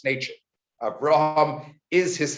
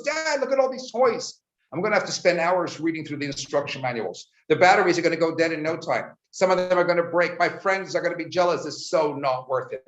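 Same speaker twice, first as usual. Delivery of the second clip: put-on higher whining kid's voice; a gloomy boy listing everything that could go wrong; whiny son; 5 semitones higher than usual.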